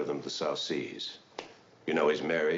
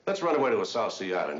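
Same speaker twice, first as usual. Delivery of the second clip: higher, louder mock come-on; playful proposition; 7 semitones higher, 4 dB louder than usual. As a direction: call it out like a joking suitor. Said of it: "Someone says".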